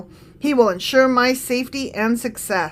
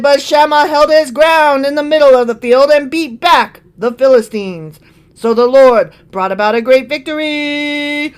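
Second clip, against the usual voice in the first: louder announcer read; 4 dB louder than usual. Acted. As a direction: proclaim it like a ring announcer. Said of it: "the announcer voice".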